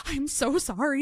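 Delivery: lightly acted sobby sorry; retold bawling apology. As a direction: imitate apologizing mid-bawl. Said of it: "bawled, and I'm like".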